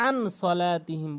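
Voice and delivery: আন cut short with a plain n; wrong, no ghunnah. Retold or imitated. Teacher mimics most people's mistake, plain unheld n. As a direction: say আন সলাতিহিম quickly, no nasal hum on the n. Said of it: "অধিকাংশ লোক ভুল করে".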